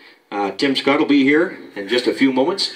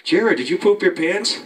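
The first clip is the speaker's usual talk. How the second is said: put-on higher, slower voice of a nosy older sister; sister's accusing voice; 7 semitones higher, slower than usual. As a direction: imitate the big sister sniffing out the culprit. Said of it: "my sister said".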